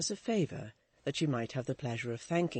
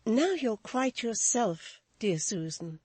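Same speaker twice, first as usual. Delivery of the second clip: soothing; 8 semitones higher, 3 dB louder, slower than usual. A narrator's reading. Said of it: "the soothing voice of Florence".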